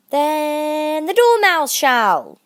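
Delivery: loud, slow drawn-out cry; both call it out together, slowly; cried out. A narrator's reading. Hatter and March Hare loudly proposing the Dormouse. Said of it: "they both cried".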